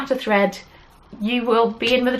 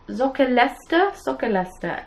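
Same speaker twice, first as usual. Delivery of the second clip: German-sounding pronunciation; 3 semitones higher than usual. Real, not acted. Host attempting a Norwegian sock collection title, German-sounding pronunciation. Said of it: "apparently I pronounce it in a German way".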